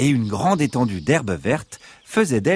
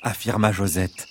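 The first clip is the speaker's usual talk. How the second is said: ordinary delivery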